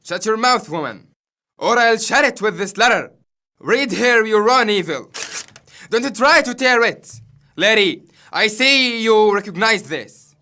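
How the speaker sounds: Albany confronting Goneril with her letter; angry husband. Acted. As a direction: shake the letter in her face.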